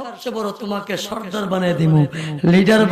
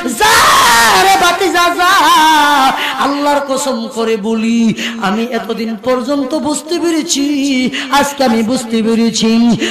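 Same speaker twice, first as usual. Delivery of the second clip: melodic sermon delivery with held line endings; impassioned waz preaching; 3 semitones higher, 6 dB louder, slower than usual. Acted. Uncle pledging support to his nephew, in melodic preaching chant.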